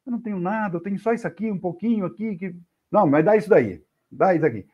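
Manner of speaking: a scared poor man offering what little he has; frightened Chico. Acted. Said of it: "O Chico, assustado".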